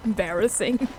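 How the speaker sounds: real giggles breaking up the apology; self-conscious, giggly apology; embarrassed giggling. Real, not acted. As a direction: giggle sheepishly between phrases. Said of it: "Sorry if I'm giggling too much".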